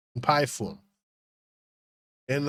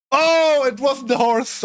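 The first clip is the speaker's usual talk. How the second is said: surprised; 7 semitones higher, 3 dB louder, slower than usual. Real, not acted. Realizes the answer was wrong.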